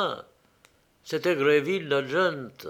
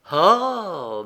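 long, falling relieved "ah"; sigh of relief; 5 semitones higher, 6 dB louder than usual. A narrator's reading. Count hears the good news, sighing with relief. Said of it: "en poussant un soupir de soulagement".

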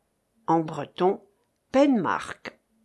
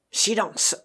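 harsh command. A narrator's reading. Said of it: "s'écria durement Marcof".

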